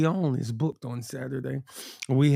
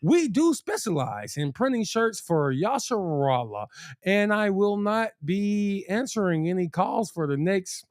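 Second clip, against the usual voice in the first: polished promo voice, a bit higher; business voice; 4 semitones higher than usual. Pretend. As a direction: salesman pitching his shop, half joking. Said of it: "I am using my speaker voice here".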